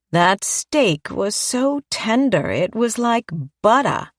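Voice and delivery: lightly voiced comedian bit, slow; a hint of a stand-up comic, drawn out; woman on a date mildly imitating a comedian; comedian impression. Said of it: "imitating some comedian".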